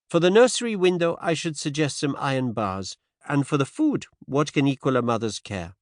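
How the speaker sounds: gentle French-tinged Poirot. Acted. Poirot voiced.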